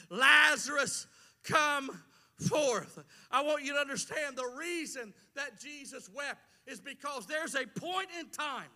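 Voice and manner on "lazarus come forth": mild commanding call. Retold or imitated. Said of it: "he's about to say".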